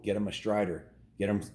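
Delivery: plain reading voice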